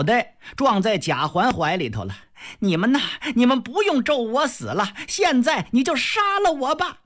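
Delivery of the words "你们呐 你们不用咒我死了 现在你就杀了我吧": rising shrill dare; wife dares drunk husband to kill her; defiant challenge. Acted. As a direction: throw it at him, daring. Fengjie dares Jia Lian.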